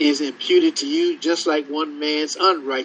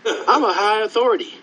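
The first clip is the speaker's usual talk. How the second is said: higher-pitched, mildly pompous official; mock self-importance; 4 semitones higher, faster than usual. Eunuch claiming high authority to Philip, mock self-importance. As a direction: pull rank, playfully puffed up. Acting out an offended religious authority.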